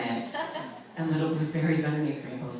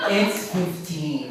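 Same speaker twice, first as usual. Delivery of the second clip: laughing; much slower than usual. Retold or imitated. Woman haggles, laughing.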